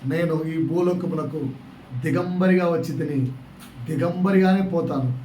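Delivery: slow, soft and grave, as Job; solemn Job quote. Acted. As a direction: speak it like a man who has lost everything. Pastor voices Job's solemn statement.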